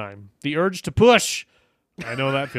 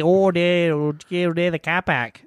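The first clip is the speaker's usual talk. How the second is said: mock Wisconsin accent. Co-host imitating how Wisconsin people say car park in a light Midwestern accent. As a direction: say "Oh, there" like a Wisconsinite. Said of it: "They say".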